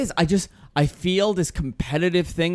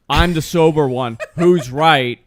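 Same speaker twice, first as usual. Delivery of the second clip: laughing through the quote; 5 dB louder, slower than usual. Retold or imitated. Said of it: "I'm like".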